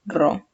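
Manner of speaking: "perro" split as pe, long pause, rro; syllable by syllable. Shown as a demonstration. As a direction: sound out "perro" so the stronger syllable can be found. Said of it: "la sílaba que tiene la mayor fuerza de voz". ("perro" dicho sílaba por sílaba)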